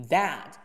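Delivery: "that" begun with a voiced th; tongue between teeth. Shown as a demonstration. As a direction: bite the tongue for the th in "that". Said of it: "that要咬舌". ("that"咬舌发音)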